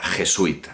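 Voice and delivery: "jesuita" as je-SUI-ta, ui in one syllable; "jesuita" said with a diphthong; written-form pronunciation. Shown as a demonstration. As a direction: run the u and i of "jesuita" together. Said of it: "como si se pronunciara".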